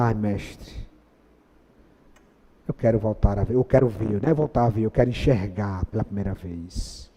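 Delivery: hushed earnest request; humble plea. Acted. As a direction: beg quietly and humbly. Blind man answering Jesus.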